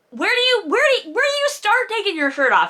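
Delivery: high, fast baffled question; incredulous. Real, not acted. Reader ranting at a silly scene, baffled. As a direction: demand it like it's absurd. Incredulous rant about unbuttoning.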